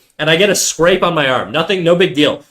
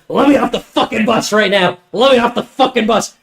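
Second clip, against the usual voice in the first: higher, harsher voice barking an order; imitating an angry demand; 5 semitones higher than usual. Attacker threatening the bus driver, angry bark. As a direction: play the attacker snapping at the driver. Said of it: "and he's like".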